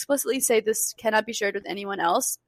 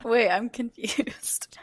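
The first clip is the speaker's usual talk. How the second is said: whispered confusion; much slower than usual. Real, not acted.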